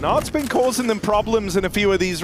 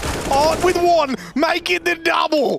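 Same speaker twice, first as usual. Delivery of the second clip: much higher, hammed-up Aussie caster voice; Aussie accent impression; 9 semitones higher than usual. Colleague asks for his best Aussie accent on air, so a hammed-up Australian voice. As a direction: play it up like a broad Australian mate calling the frag. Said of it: "your best Harry impression".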